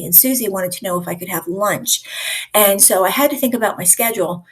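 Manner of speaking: run-on rambling, hurrying from detail to detail; rambling over-explainer. Shown as a demonstration. Trainer shows her class how people over-explain, rambling. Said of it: "they over-explain".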